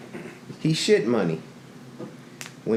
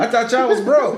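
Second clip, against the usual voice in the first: high, louder, laughing through the jab; laughing tease; 9 semitones higher, 5 dB louder than usual. Retold or imitated. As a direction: tease them while cracking up. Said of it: "you know".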